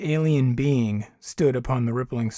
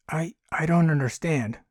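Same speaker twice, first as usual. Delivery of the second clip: sputtering; 3 semitones higher than usual. Acted. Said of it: "Jules sputtered".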